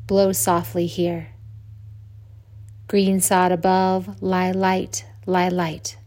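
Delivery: slow, hushed-paced verse with pauses after each phrase; poem reading. Acted. Yoga teacher reciting Mark Twain to resting listeners, slow poem reading. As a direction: recite it like a bedtime blessing, sinking at line ends.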